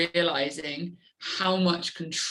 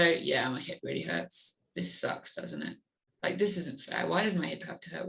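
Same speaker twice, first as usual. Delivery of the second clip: self-pity. Retold or imitated. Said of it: "feeling sorry for yourself".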